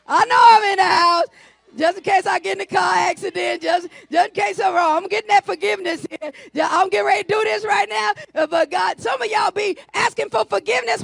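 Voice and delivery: loud, driving sermon shout; fired-up preacher pressing the congregation; full-force preaching. Real, not acted.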